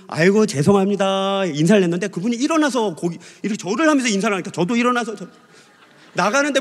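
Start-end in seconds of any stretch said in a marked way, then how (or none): 0.1-1.5 drawn-out polite apology at full voice; effusive apology. Retold or imitated. Pastor apologizing back to the doctor, drawn-out and effusive. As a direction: stretch out an eager apology. 되받는 사과 인사 흉내.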